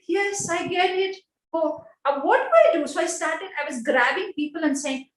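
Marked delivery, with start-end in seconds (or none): 0.1-2.9 flustered panic. Retold or imitated. Flustered after scolding.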